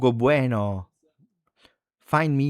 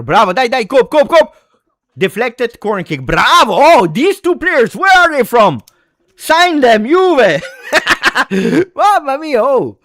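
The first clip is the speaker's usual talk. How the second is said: much higher and louder, laughing with joy; ecstatic laughing cheers; 13 semitones higher, 10 dB louder than usual. Real, not acted. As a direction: shout with delight at the team. Fan celebrating players, laughing.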